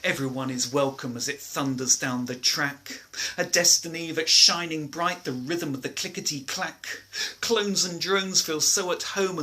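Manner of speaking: rhythmic, sing-song verse reading; poem recital. Acted. Performs a rhyming poem.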